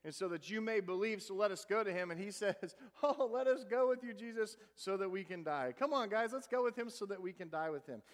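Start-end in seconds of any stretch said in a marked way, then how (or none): 3.0-8.0 sarcastic disciple mocking the plan; sarcastic Thomas. Thomas sarcastically urging disciples to die too, mock eager. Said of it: "you sense this sarcasm".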